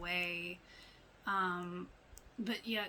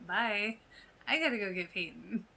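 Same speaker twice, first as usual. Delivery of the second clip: put-on mean girl; 4 dB louder than usual. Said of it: "The mean girl is back".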